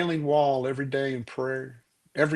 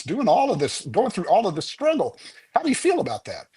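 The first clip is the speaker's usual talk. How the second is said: a touch higher, lightly voiced pestering reporter; pushy reporter; 5 semitones higher, faster than usual. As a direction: press the old rabbi a bit higher and faster. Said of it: "the poor reporter's going".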